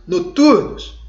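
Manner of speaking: loud, high call; shouted name. Shown as a demonstration. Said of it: "Quando você grita". (palavra gritada, alta)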